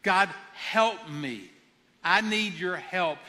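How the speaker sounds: slow, earnest prayer for help; a model prayer the congregation can repeat. Shown as a demonstration. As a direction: pray it gently, letting each plea land. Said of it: "And I just want to say".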